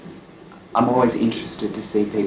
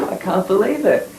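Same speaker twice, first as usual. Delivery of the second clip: surprised; 11 semitones higher than usual. Retold or imitated. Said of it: "I'm going".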